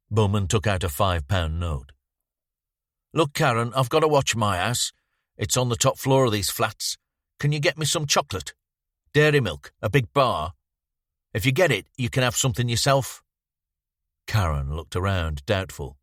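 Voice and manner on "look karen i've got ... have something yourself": lightly voiced friendly persuasion, higher; coaxing youth. Bowman coaxing Karen to fetch chocolate, light friendly voice. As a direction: sweet-talk the little girl.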